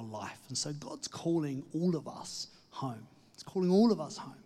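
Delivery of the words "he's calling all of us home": louder and higher, ALL stressed; emphatic call. Acted. Preacher urges listeners home, loud and lifted. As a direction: ring it out like a rallying cry.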